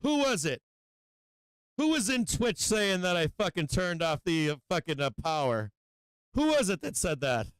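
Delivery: high-pitched mock outrage on the first words; mock accusation. Streamer jokingly confronting Twitch chat over the power cut, mock accusing. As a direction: playfully demand the culprit own up.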